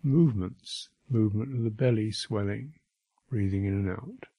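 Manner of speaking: unhurried meditation guidance with long silences; name each sensation, then leave space; guided meditation. Real, not acted. Teacher guiding listeners through bodily sensations, unhurried guided meditation.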